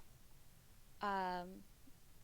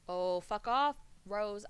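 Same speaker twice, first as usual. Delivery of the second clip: annoyed outburst; 6 dB louder, slower than usual. Real, not acted. Annoyed at a player in game.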